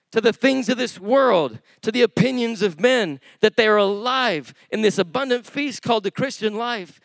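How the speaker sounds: exhorting preacher; impassioned preaching. Acted. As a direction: drive the message home to the congregation. Preaches with force.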